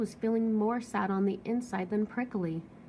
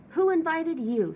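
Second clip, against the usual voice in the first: grumpy; 7 semitones higher, 6 dB louder than usual. Acted. Hank rude to lizard.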